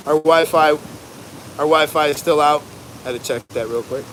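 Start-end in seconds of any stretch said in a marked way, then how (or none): 0.1-2.6 louder, slow call over wind; shouting over wind. Real, not acted. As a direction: push it out over the gusts. Outside in hurricane wind.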